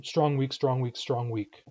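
strong stressed, weak lighter, in alternation; strong-weak rhythm. Shown as a demonstration. Teacher showing English rhythm, strong stressed and weak light. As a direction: swing evenly from strong down to weak. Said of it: "usually fall into a very".

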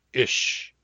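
"ish" alone, short vowel; shortened variant. Shown as a demonstration. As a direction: say only a brief "ish". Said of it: "different pronunciations of the same word".

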